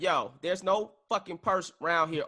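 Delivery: a mild mock frustrated snap. Host suggests a frustrated reply to the accusation. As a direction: push it a little, fed up with the search. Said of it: "starting to get frustrated".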